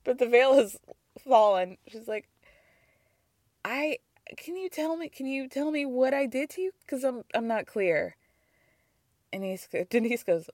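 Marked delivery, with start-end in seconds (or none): 3.6-8.2 mild, softly puzzled imitation; genuinely confused. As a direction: play someone honestly at a loss, softly. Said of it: "like, legitimately confused".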